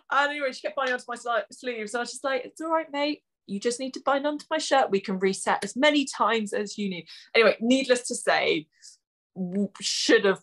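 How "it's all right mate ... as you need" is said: patronising. Retold or imitated. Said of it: "kill it with patronising".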